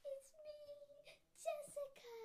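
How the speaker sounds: high crying voice. Retold or imitated. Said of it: "I'm gonna be like".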